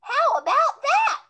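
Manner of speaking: high, loud delighted cry; children cheering. Acted. Children admiring the snowman's new coat, loud cheer. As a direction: cheer it out like a crowd of kids. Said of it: "The children all said".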